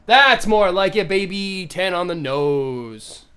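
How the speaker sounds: loud, gloating cheer that slows at the end; triumphant. Real, not acted. Player celebrating a rerolled die, loud triumph. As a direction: crow over a lucky roll, drawing out the last words.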